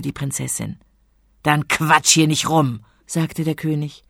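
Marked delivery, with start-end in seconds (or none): 1.4-2.8 slow, louder scolding; annoyed. Acted. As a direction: tell her off impatiently. King tells her off. (ungeduldig schimpfend)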